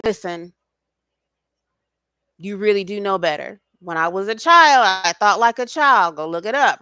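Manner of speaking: a stern father losing patience. Retold or imitated. God warning a child a second time, firmly. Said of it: "a little bit more stern".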